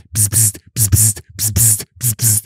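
imitated vibrating phone; rapid buzzes through the lips; phone buzzing. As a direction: buzz like a flood of incoming messages. Imitates phone buzzing once switched on.

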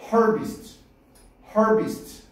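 harvest의 첫 음절을 길게; harvest, 앞 음절을 끌고 뒤는 짧게. Shown as a demonstration. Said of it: "길게 발음하라고". (harvest를 앞에 힘주어 또박또박)

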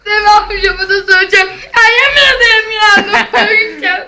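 being tickled. Real, not acted. Tickled child protests, half crying.

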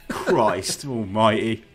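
slow, drawn-out exclamation with a laugh; laughing, long-stretched despair; appalled exasperation. Real, not acted. Podcaster appalled by his own gamer impression, slow exasperation.

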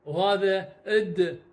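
slow sounded-out letter sound. Shown as a demonstration. Teacher sounding out the letter for students, slowly. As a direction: stretch وهذا اد slowly as the sound "ad". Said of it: "ع،".

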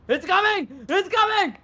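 frightened shouting. Real, not acted. Monster approaching.

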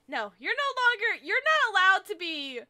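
lightly nasal cartoon kid; a hint of a flat nasal boy; Craig Tucker voice. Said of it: "as close as I'm gonna get to a Craig Tucker voice".

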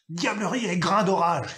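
juron lancé plus haut et plus fort; juron furieux. A narrator's reading. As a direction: peste de colère. Père couvert de boutons jure. (le père couvert de boutons jure, furieux)

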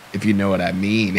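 tag. Acted. Creep offers lady a ride.

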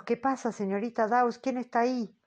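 lady calls out to Miss Dawes behind the curtain; calling out. Acted. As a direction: call out to the medium behind the curtain. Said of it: "me pregunta a gritos".

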